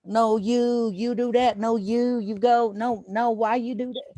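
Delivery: high scolding put-on accent, imitating his son's mom; imitating Asian girlfriend yelling. Mocking his son's mom scolding him, high put-on Asian accent. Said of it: "she's always yelling at me".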